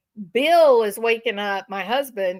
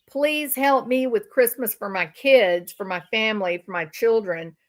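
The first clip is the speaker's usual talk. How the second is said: mock pleading. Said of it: "You are saying".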